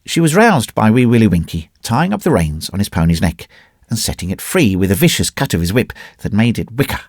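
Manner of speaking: ordinary delivery, nothing marked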